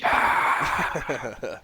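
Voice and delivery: imitated crowd cheer; soft, airy mock roar of a crowd. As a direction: fake stadium cheer. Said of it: "the crowd is like".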